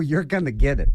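chuckling through the words; amused, laughing warning. Real, not acted. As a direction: laugh while you say it. Laugh on the line.

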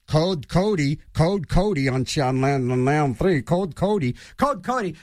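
slow, low store intercom call; droning store intercom announcement. Retold or imitated. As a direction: page it like a store loudspeaker. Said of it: "over the intercom".

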